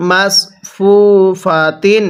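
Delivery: "মাস" ending in a full Arabic sad, not a thin s; sad, not sin. Shown as a demonstration. Teacher modelling sad for learners, "মাস" with emphatic s. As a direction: say "মাস ফু ফা তিন" measured, heavy s in "মাস". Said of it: "সদকে সদের মতো করেই উচ্চারণ".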